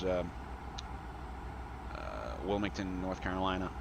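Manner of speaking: upbeat, lifted PA voice to passengers; captain's cheerful cabin address; airline pilot announcement. Real, not acted.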